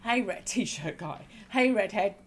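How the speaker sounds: laughing halfway through the line; slow, a laugh breaking into the greeting; laughing tease. Acted. Teasing the guy in the red t-shirt, laughing.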